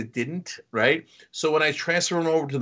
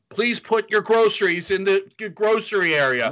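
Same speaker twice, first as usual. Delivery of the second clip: machine voice; 4 semitones higher than usual. Retold or imitated. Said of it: "it keeps saying".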